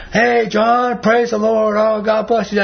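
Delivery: high, loud hearty greeting shouted across a room; retold yell. Friend hollering a greeting across the store, loud and high. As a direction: call it out big and happy. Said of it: "all yell all the way across the store".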